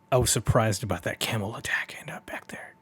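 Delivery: whispered villain try; trying a Dio voice. Shown as a demonstration. Player testing a whispered voice for Dio. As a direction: breathe it like a sly schemer. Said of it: "I gotta think about Dio voice".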